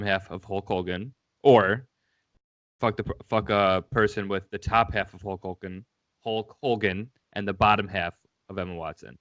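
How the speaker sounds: measured repeat with pauses between options; deliberately slow. Real, not acted. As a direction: repeat the question slowly, phrase by phrase. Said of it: "I'll say it slow".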